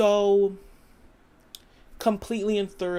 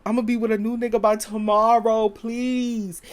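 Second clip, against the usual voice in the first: fast, dismissive put-on voice; a light sassy shrug of a voice; mock sassy wife; 2 semitones higher, 3 dB louder than usual. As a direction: brush him off like it's nothing. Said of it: "And her saying".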